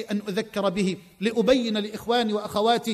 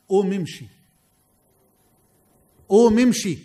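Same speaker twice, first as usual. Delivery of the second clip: commanding call, louder on the repeat; 4 semitones lower, 3 dB louder than usual. Retold or imitated. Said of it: "بصوت مرتفع".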